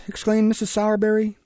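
usual speaking voice

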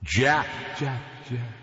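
a hint of a ghost hissing close to the ear; lightly hissed spectral call; soft ghostly hiss. A narrator's reading. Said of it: "the voice hissed softly right into my ear".

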